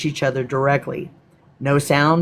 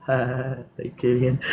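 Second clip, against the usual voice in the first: laughing; 2 semitones lower, 5 dB quieter, slower than usual. Real, not acted. Laughing thanks.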